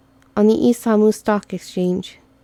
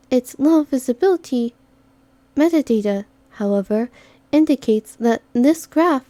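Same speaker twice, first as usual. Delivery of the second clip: higher, precise briefing voice; cool data-reading operative partner; analytical character voice; 3 semitones higher than usual. Acted.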